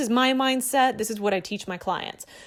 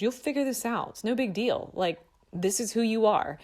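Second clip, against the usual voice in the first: calm and assertive. Retold or imitated. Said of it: "And very calmly".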